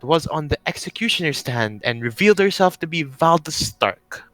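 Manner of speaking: deliberate, persuasive interrogator with pauses; Penarkin. Acted. Noble lays out evidence to prisoner, lilting salesman. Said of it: "the voice I gave Penarkin".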